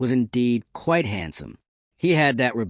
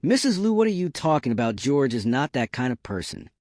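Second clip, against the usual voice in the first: retort; 3 semitones higher than usual. Acted. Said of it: "retorted on my behalf".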